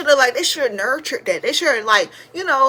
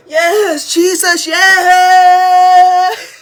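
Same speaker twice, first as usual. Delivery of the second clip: high, loud, tearful cry of praise; child hollering praise in church; mock church praise shout; 8 semitones higher, 9 dB louder, much slower than usual. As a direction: shout it like you're caught up in the Spirit. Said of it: "I'd be like".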